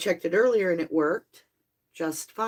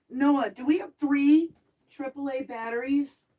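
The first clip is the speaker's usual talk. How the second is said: calling out; 5 semitones higher than usual. Real, not acted. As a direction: call up to someone in another room. Calling to someone in the house.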